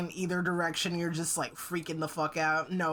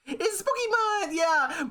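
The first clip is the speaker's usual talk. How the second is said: high, loud "It's Spooky Month!"; excited shout; 11 semitones higher, 3 dB louder, slower than usual. Acted. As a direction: burst out with glee.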